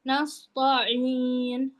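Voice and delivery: "Nasta'in" with a heavy, rounded ta, like "nasto'in"; wrongly thickened. Shown as a demonstration. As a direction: thicken the middle of "Nasta'in" towards an o. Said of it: "ada yang menebalkan".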